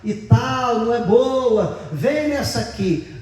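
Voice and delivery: high pleading grandma voice; grandma begging her grandson to switch tables, high and pleading. Retold or imitated. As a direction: coax the boy over like a fussing granny. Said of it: "E a avó dizia".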